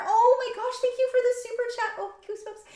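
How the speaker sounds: high, fast and loud with delight; thrilled. Real, not acted. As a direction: burst out thanking a generous fan. Thrilled by a super chat.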